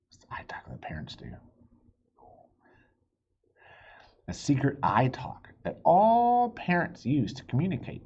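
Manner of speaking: hushed secret aside; whisper. A narrator's reading. Narrator whispering the parents' secret to listening kids.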